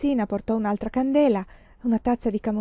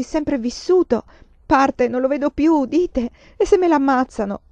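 sobbing lament; 3 semitones higher, 5 dB louder than usual. Acted.

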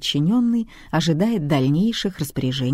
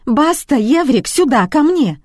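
much higher, louder squealing call; shrill squeal; 10 semitones higher, 7 dB louder than usual. A narrator's reading. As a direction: squeal for the dogs to come. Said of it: "За спиной завизжали". (визгливо зовёт собак, срываясь на крик)

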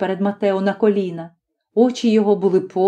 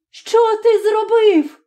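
much higher, slow, alarmed cry; a mother fearing the worst; mother crying out to her husband after the shot; horrified cry; 13 semitones higher, slower than usual. Acted. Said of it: "вигукнула вона".

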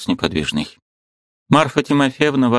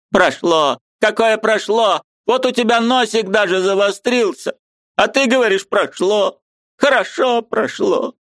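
put-on high, pleading old woman's voice; an aunt who can't bear it any longer; distressed old aunt; 13 semitones higher than usual. A narrator's reading. Aunt Marfa pleading with her pale niece, high and anguished.

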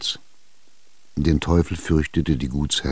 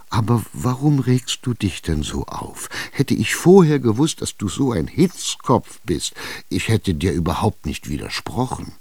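pleading; 3 semitones higher than usual. Acted. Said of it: "fast flehend".

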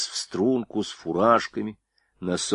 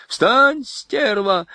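loud, high furious bellow; furious yell; 6 dB louder, much slower than usual. A narrator's reading. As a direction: roar it at the soldier. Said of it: "заорал капитан".

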